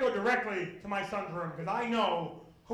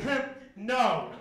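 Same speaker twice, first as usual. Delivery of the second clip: giggling denial; 4 dB louder than usual. Retold or imitated. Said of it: "he giggled".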